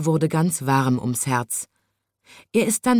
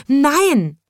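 even higher, loud panicked no; shouting; 9 semitones higher, 5 dB louder than usual. A narrator's reading. Sweep refuses the frog again, higher shout. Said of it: "schrie er".

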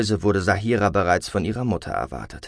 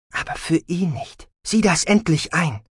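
high, exasperated insistence; impatient mother's rebuttal; sharp retort; 8 semitones higher than usual. A narrator's reading.

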